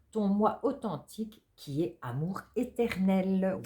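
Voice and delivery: slow, gentle reading of card text. Acted. Reads out the oracle card.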